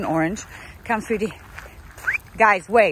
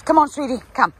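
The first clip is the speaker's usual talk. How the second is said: calling dogs; 4 semitones higher, 5 dB louder, faster than usual. Real, not acted.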